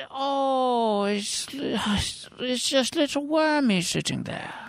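high, sweet cat voice; kitty cat voice. Acted. The kitty cat in the joke, high cutesy voice. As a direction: play the cat, high and cute.

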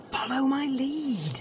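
slow, drawn-out insistent undertone; insistent whisper. Acted. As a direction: repeat it slowly and softly, stretching each word. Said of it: "What are you whispering about?".

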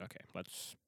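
tense hushed whisper; scared whisper. Retold or imitated. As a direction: whisper it in the dark.

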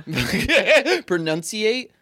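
drawn-out "pronunciate?" through a laugh; laughing at own word. Real, not acted. Unsure of a word to a friend, laughing slowly. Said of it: "I can't even pronounce".

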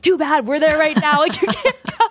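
high, playful mock voice for the boyfriend; teasing boyfriend. Quoting her fiancé teasing his family, mock high playful.

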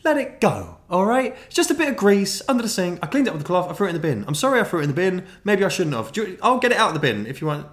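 high, loud exasperated begging; pleading deflection. Retold or imitated. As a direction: beg her to drop it. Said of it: "I was like".

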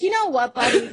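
high, loud, fed-up challenge; mock telling-off. Actress to the creep following her, mock telling-off. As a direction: round on him, imitating indignation. About to tell off persistent stranger.

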